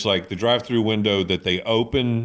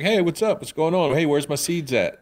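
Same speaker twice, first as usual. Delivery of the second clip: higher-pitched, casual greeting in a pet's voice; cheery returning pet; 7 semitones higher than usual. Retold or imitated. Pet greeting its owner on coming back, breezy and high. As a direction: lightly voice a pet sauntering back in. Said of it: "he walks right up to her and he's like".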